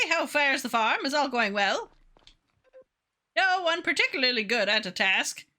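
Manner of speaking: measured, lightly voiced genteel villager; courtly game character. Villager asks how the farm fares, courtly patient voice. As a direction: lightly put on a formal, patient advisor.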